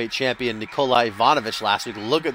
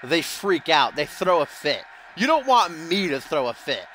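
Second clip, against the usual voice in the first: higher-pitched hammed-up Russian accent heel promo; mock Russian accent; 3 semitones higher than usual. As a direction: boast like a Russian villain wrestler, hammed up. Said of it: "should I do that Russian accent?".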